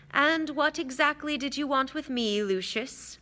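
courteous but probing; politely put, softening on the name; Dumbledore, polite. Acted. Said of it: "He spoke politely".

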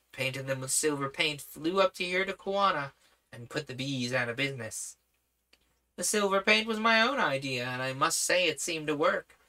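lightly voiced young prince; a hint of an eager boy; boyish voice. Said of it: "boyish voice".

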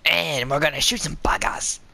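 light put-on Aussie accent; Australian accent. Gamer announcing who gets shot, mock Australian accent. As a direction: play at being Australian. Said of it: "I wanna just speak Australian".

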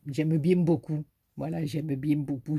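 "bien" said "bièn" with a ringing nasal n, Marseille accent; southern French accent, lightly put on, "bièn beaucoup". Shown as a demonstration. Vlogger jokingly says she likes Dan's channel in Marseille accent. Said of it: "c'est à la Marseillaise que vous voulez".

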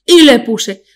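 slow, husky put-on voice that strains the throat; a faked voice, slow and throaty; Ana Milán impression. Imitating Ana Milán's autograph story, strained throaty voice. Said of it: "te jode la garganta hacer esta voz".

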